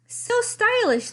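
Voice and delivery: very high, loud, slow clown cry. A narrator's reading. Clowns raving over the sweater pile, high and swooning. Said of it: "they cried".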